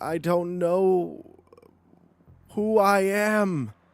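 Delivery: anguished cry in Italian. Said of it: "he cries out in Italian".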